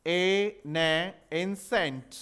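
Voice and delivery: slow phonetic demo of एंसेंट; sounding out एंसेंट. Shown as a demonstration. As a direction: slowly build एंसेंट from "e", "ne", then "ensent". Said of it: "phonetic transcription होता है".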